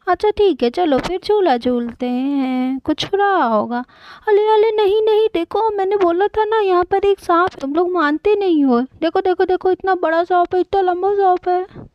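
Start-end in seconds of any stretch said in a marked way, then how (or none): 4.3-11.9 alarmed. Acted. Child spots the snake.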